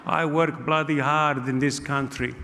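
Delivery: angry Italian uncle voice, kept low-key; Gino. Acted. Uncle telling off the bottle shop man, indignant Italian accent. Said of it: "I got a very angry".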